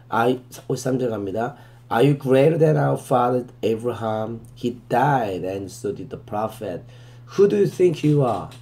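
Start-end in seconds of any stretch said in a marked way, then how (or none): 1.9-8.5 very slow, deliberate verse reading, word by word; slow scripture reading. Shown as a demonstration. Teacher reading the verse to students, very slow and deliberate. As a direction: read it out slowly so students can follow.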